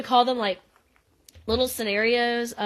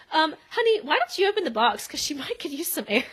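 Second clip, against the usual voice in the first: mock sweet dad; 5 semitones higher, faster than usual. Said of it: "and so Joe says".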